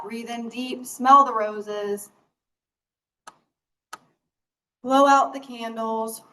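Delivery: slow, drawn-out breathing cues; guided breathing. Real, not acted. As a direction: pace each cue to a long breath. Leads a breathing exercise.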